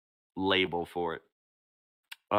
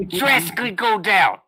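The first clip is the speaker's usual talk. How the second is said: laughing; 12 semitones higher, 9 dB louder than usual. Real, not acted. Laughing echo of phrase.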